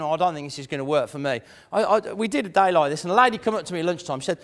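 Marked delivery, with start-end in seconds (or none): 0.0-1.4 mock doubt. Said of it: "if they're saying".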